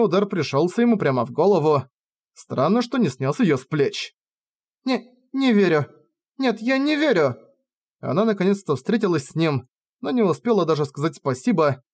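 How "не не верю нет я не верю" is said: disbelief. Acted. Heroine sees Rainer fall.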